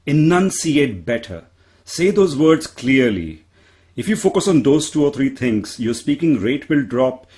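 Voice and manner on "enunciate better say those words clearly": slow, carefully enunciated; measured coaching emphasis; emphatic advice. Retold or imitated. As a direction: spell it out clearly. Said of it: "people telling me".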